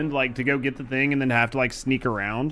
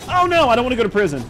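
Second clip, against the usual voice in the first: mock panic; 8 semitones higher, 6 dB louder, faster than usual. Caught, begging in mock panic.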